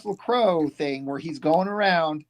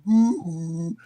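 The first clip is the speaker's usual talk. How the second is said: mock tugboat honk. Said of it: "He's like".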